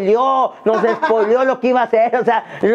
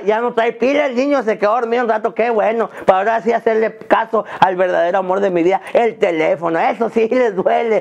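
normal talking voice

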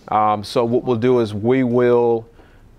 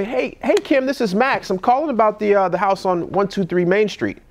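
friendly guy-next-door call, a bit higher; lightly higher casual phone voice; casual caller; 5 semitones higher than usual. Shown as a demonstration. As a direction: sound like a neighbor, not a pro.

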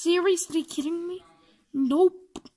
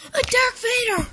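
shocked gasp; 8 semitones higher, 3 dB louder than usual. Acted. Shocked at Vader arrival.

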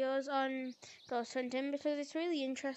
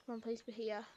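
pleading with a machine; 3 semitones lower, 9 dB quieter than usual. Real, not acted. Waiting for the game to load.

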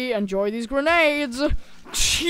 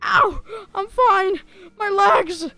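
high character voice; 7 semitones higher, 4 dB louder, slower than usual. Acted. Ragdoll character in pain.

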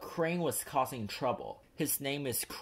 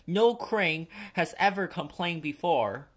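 indignant engine; 5 semitones higher, 5 dB louder than usual. A narrator's reading. Thomas arguing with Cranky.

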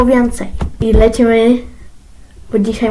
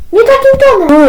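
high loud snap at the son; high, loud "Nie takim tonem!" barked at the son; angry scolding; 9 semitones higher, 5 dB louder than usual. Acted. Mother scolds his tone.

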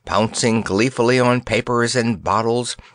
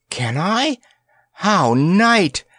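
much higher, delighted little princess; a tiny princess charmed by a gift; 9 semitones higher, much slower than usual. A narrator's reading. Princess Planetti voiced.

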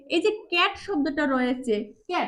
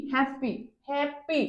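"হ্যাপি" slow and softer, split as হ্যাপ, পি; two beats; 5 dB quieter, slower than usual. Shown as a demonstration. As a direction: give both syllables of "হ্যাপি" their own beat. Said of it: "দুইবারও উচ্চারণ করেছি". ("হ্যাপি" ধীরে, দুই ঝোঁকে)

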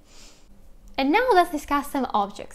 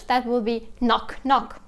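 normal talking voice

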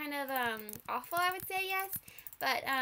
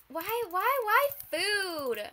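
exasperated cry; 5 semitones higher, 7 dB louder, much slower than usual. Real, not acted. Exasperated at being given food again.

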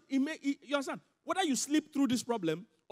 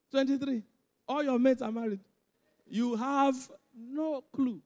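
incredulous; 4 semitones higher, 7 dB louder, slower than usual. Real, not acted. Mocking the 23-year-old's panic.

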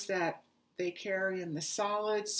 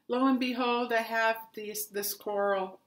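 excited; 2 semitones higher, 6 dB louder than usual. Real, not acted. Excited find of coral yarn.

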